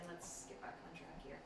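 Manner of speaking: grandma voice. Retold or imitated. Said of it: "as Julie's grandma would say".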